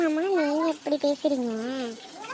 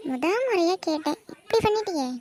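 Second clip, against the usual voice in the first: hurt complaint; 5 semitones higher, 4 dB louder than usual. Acted.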